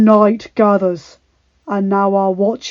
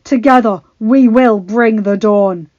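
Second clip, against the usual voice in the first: rousing battle speech; 3 semitones higher, 10 dB louder than usual. Acted. Jon on dragonback rallying the army, loud and stirring. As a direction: stir them to fight one last time.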